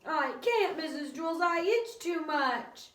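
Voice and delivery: high, slow whine; Dana whining. A narrator's reading. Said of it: "Dana whined".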